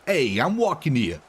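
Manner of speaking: put-on a light Boston accent; half-hearted Boston accent. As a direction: do the typical Boston "walking here" line. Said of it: "I wanted to do your typical Boston".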